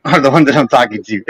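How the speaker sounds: said through a laugh; laughing repeat of the line. Real, not acted. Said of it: "repeated with a laugh".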